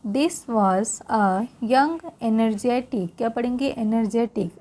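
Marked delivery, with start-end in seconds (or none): 0.0-3.2 slow read-aloud to repeat after; teacher reads slowly for students to repeat. Shown as a demonstration. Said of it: "फिर से एक बार मेरे साथ repeat करेंगे".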